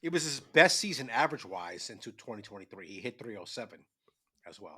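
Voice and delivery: speaking with ice in mouth. Real, not acted. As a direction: mumble around an ice cube. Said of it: "I got ice in my mouth".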